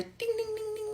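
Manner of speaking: high sing-song "ding, ding"; fridge chime imitation. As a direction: mimic the beeping fridge.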